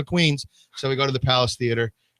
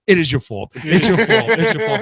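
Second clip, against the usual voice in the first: "It's your fault" drawn out very slowly and higher; stress on your fault; 5 semitones higher, 4 dB louder, much slower than usual. Retold or imitated. Comic roaster flipping the line, slow drawn-out stress. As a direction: stretch the word "your" out with slow mock emphasis. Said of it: "then he says".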